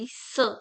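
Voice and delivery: S as a soft "suh"; soft C sound. Shown as a demonstration. Teacher showing cedilla C, S as soft "suh". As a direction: say S as a sound, "sss-uh". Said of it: "soft sound".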